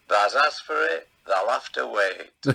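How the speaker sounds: put-on light Yorkshire comic accent, slowing at the end; a gentle Yorkshire tease, last words slowed; the speaker's Yorkshire accent. Old comic teasing autograph fan, mild Yorkshire accent. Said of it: "You, you got his accent".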